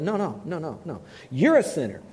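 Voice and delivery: a touch of indignant self-defence; indignant denial. Retold or imitated. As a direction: protest your own goodness. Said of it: "I'm telling you this as he said it".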